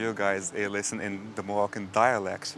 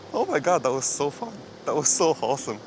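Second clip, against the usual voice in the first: excited; 5 semitones higher, 6 dB louder than usual. Real, not acted. Thrilled after the dog encounter.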